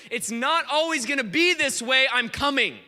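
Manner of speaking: emphatic preacher's proclamation; declaring God's promise. Retold or imitated. Preacher voicing God's promise to the nation, declaring.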